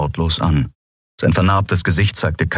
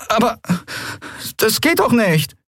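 put-on much higher young voice, dismayed; high boyish protest. A narrator's reading. Miko protesting to Keru, dismayed. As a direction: protest like a worried boy.

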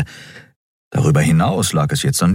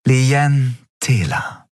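drawn out, with a smile; slow smiling reveal; 7 semitones higher, much slower than usual. A narrator's reading. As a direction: let the name land slowly, smiling. (langsam, lächelnd)

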